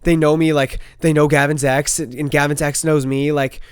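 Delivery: loud, panicky retelling of a friend; mimicking his panic. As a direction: play the freaked-out friend, talking loud and fast. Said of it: "she said".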